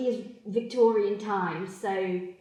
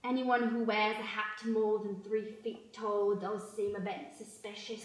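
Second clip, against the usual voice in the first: hushed, soft aside; conspiratorial hush; 3 semitones lower, 6 dB quieter than usual. Acted. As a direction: lean in and whisper the suspicion.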